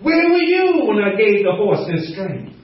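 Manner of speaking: lightly acted divine questioning; God challenging Job. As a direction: put the questions like a rebuke from on high. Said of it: "Like he talked to Job".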